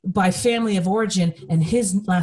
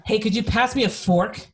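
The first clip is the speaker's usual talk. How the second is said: mild mock yell; 3 semitones higher than usual. Asking partner again, mildly raised voice. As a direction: repeat it with some edge. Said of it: "Gosh, you don't have to yell".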